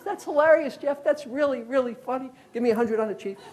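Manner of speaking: laughing high, imitating the bettor; cracking up. Caller laughing at FBI Jeff, high and laughing. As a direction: chuckle it out as the amused caller. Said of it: "He starts cracking up".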